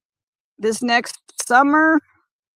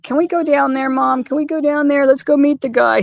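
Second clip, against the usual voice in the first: voicing the dog; 4 semitones higher, 3 dB louder than usual. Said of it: "it's more like".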